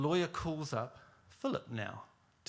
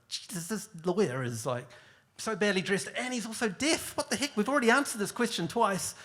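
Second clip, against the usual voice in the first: exasperated aside; 7 semitones higher, 4 dB louder than usual. Retold or imitated. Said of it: "and I go".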